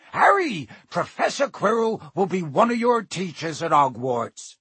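booming friendly giant; Hagrid voice. A narrator's reading. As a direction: introduce him heartily. Hagrid introducing.

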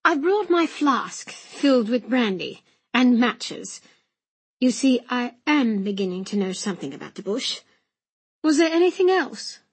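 lightly voiced, well-spoken young gentleman; earnest young gentleman. Young gentleman reporting to coachman, mildly eager. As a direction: play a keen newcomer to the bush.

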